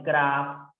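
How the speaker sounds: "cra" drawn out slowly; stressed syllable. Shown as a demonstration. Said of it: "la sílaba con mayor fuerza de voz".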